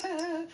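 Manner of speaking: high-pitched comic yelp of alarm; imitated scared whimper; mock frightened cry. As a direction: let out a high, playful "ah" of panic. Teacher flees creepy student, imitated.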